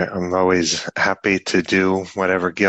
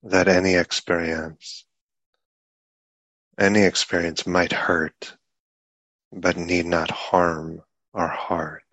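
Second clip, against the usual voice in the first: unhurried meditation guidance with long pauses between phrases; guided meditation. Real, not acted. Teacher guiding a group sitting in meditation, unhurried guided meditation. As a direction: speak in measured phrases, leaving long silences.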